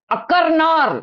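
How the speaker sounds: அக்கர்னார் with each R firmly sounded; emphasised silent R. Shown as a demonstration. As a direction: press on the normally silent R in அக்கர்னார். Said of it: "அப்படி அழுத்தமா pronounce பண்ணேன்".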